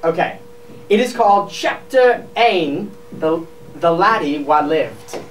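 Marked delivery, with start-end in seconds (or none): 1.5-5.2 Scottish accent. Shown as a demonstration. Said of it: "Scottish translation of Harry Potter".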